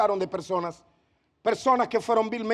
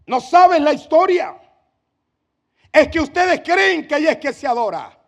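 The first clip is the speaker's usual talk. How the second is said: sarcastic; 5 semitones higher, 6 dB louder than usual. Acted. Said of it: "Y comenzó el diálogo sarcástico".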